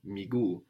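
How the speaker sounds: miguu as mi-gu-u, accent on the first of the two U's; stress on the first U. Shown as a demonstration. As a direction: give miguu three syllables, stress gu. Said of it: "accenting the second from last one".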